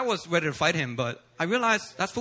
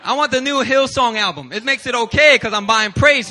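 mock pious wish; 4 semitones higher, 8 dB louder than usual. Mock pious want, laughing.

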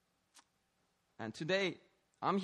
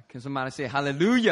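rousing call; 10 dB louder, faster than usual. Real, not acted. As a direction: call on the congregation to shout back. Calling congregation to respond.

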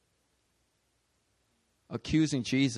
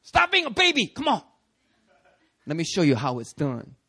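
mock tough leader; 2 semitones higher, 5 dB louder than usual. Mocking scared leader trainee.

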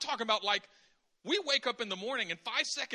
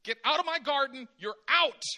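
mock angry God; 4 semitones higher, 7 dB louder than usual. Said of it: "God says to Adam and Eve".

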